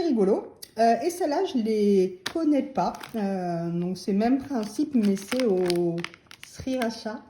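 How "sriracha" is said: sriracha tried with a soft "sha" ending; tentative pronunciation. Shown as a demonstration. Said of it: "je sais pas comment on dit".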